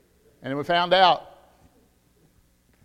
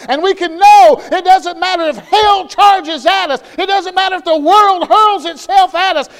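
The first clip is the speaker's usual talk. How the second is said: high, loud preaching at full force; fiery preaching; 12 semitones higher, 18 dB louder than usual. Acted. Preacher assures the congregation they can be sure of salvation, loud and fiery. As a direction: thunder it from the pulpit.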